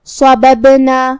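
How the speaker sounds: slow صببنا with an echoing bounce on ب; qalqalah on صببنا. Shown as a demonstration. Teacher showing qalqalah, bouncing the ب in صببنا. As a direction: bounce the silent ب in صببنا, chanted slowly. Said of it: "با کو ہلاتے ہوئے".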